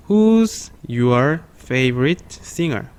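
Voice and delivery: very slow, word by word; slow read-along. Shown as a demonstration. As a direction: stretch every word so the class can follow. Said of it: "천천히 시작".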